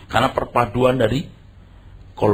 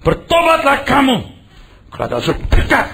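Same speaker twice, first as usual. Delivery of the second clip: much higher, louder "Bertobatlah" shouted out; fiery call to repent; 11 semitones higher, 3 dB louder than usual. Retold or imitated. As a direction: thunder it like a revival preacher. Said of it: "Nadanya gimana nadanya?".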